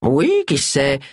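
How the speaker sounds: lightly amiable reply; easy, agreeable tone; pleasant. Acted. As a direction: brush it off pleasantly. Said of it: "répliqua Charles d'un ton plaisant".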